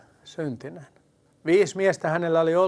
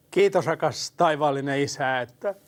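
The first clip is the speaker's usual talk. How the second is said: gentle spoken prayer to the Father. Acted. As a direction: pray tenderly on the listener's behalf. Leads a prayer. (rauhallinen rukous)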